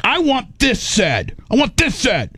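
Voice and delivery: high-pitched mock insistence; imitating a heated demand; retold insistence. Retold heated demand in written notes.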